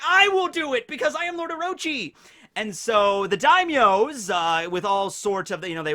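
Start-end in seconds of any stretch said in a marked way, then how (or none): 0.1-2.1 booming high villain proclamation; dark lord. Retold or imitated. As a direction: proclaim it like a gloating tyrant. Mocking Orochi again.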